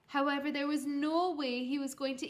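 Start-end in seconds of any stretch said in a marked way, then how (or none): none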